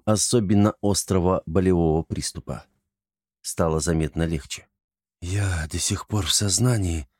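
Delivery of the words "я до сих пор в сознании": weak whisper through numb lips; barely moving numb lips. Acted. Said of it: "прошептал непослушными губами". (шёпот онемевшими губами)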